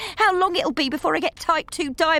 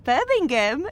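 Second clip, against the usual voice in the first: put-on Birmingham accent; 4 semitones higher, slower than usual. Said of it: "do I detect a hint of a Birmingham accent".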